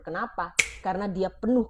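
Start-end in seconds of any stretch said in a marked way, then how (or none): none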